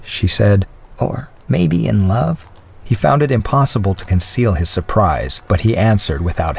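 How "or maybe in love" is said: put-on lightly raised voice of a gracious old lady; a hint of the old widow's voice; elderly lady voice. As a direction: speak as a kindly older woman. Mrs Callender asks.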